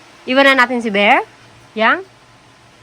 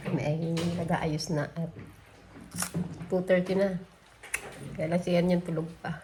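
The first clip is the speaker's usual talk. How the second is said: softer, hushed morning greeting; 5 semitones lower, 9 dB quieter than usual. Real, not acted. Mother greeting viewers at dawn beside sleeping child, hushed.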